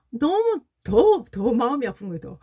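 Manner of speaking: words dragged out through welling tears; mother recalling her son's words, voice breaking with emotion. Real, not acted. Choking up retelling son's words.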